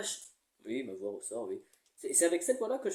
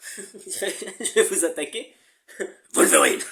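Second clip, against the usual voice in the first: growling dog voice; 4 dB louder, slower than usual. Pretend. After dog growl exercise.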